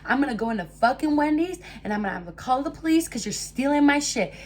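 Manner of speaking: high, loud, angry re-enactment; retold screaming demand. Speaker demanding the stolen phone back, re-enacted screaming. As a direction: re-enact yelling at someone to hand it over. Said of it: "I literally start screaming".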